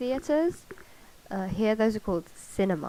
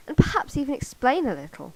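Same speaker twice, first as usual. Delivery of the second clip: high, raised-voice squawk; indignant squawk; 6 semitones higher, 7 dB louder than usual. A narrator's reading. Woman demanding an explanation, high loud squawk. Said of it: "Sophie squawked".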